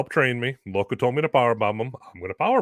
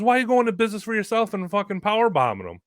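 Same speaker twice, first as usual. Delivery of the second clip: angry boss; 11 semitones higher, 3 dB louder, faster than usual. Retold or imitated. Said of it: "he goes".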